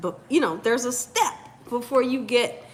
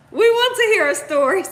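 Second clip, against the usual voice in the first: mock Sonya voice; 7 semitones higher, 6 dB louder, faster than usual. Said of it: "Sonya says".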